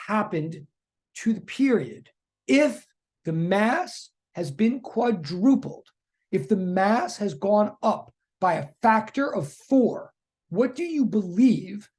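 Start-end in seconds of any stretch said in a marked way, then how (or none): 2.5-11.9 slow, emphatic questioning, pausing between phrases; intense, measured teacher pressing for an answer; really intense. Real, not acted. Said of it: "I'm sounding really intense".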